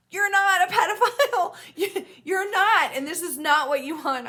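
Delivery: "not" hit high and loud with a laugh in the voice; high, forceful stress on "not"; emphatic reassurance. Real, not acted. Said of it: "I'm emphasizing this in this way".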